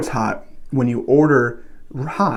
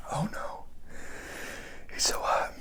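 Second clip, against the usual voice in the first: breathless whisper after a hot bite; gasping through the heat; mouth burning from spicy food; 4 semitones higher, 14 dB quieter, slower than usual. Real, not acted.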